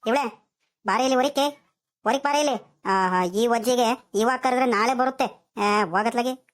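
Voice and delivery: acted calling, drawn-out word endings. Grandfather summoning his wife from inside, calling out. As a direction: call someone out of the house, impatiently. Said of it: "ಹಿಂಗ್ ಕೂಗ್ಕಣ್ತಿದ್ಯಾ".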